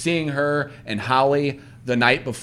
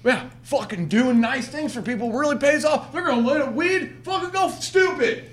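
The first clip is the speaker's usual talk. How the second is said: sarcastic inner voice; 7 semitones higher than usual. Retold or imitated. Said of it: "I was like".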